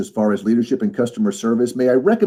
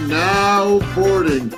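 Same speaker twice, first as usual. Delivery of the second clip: train station announcer; 6 semitones higher, much slower than usual. Pretend. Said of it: "the train station voice".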